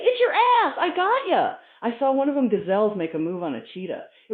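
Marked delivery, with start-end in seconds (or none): 0.0-1.6 high, loud gotcha yell; triumphant shout. Acted. Cheetah catching the deaf gazelle, triumphant high shout. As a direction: pounce on the prey with your voice.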